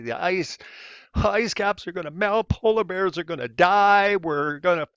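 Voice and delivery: high, hammed-up alarm; mock panic. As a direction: parody of a panicking crowd. Mocking climate panic.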